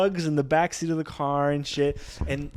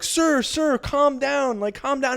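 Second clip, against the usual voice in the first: cop voice; 13 semitones higher, 4 dB louder, slower than usual. Retold or imitated. Police calming the friend.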